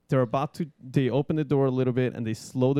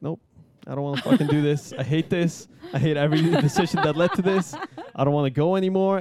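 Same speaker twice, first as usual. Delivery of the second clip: higher, quick panicked refusal; mock panic; 4 semitones higher, 3 dB louder, faster than usual. First-timer balking at the door, hurried mock panic. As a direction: protest fast, half laughing.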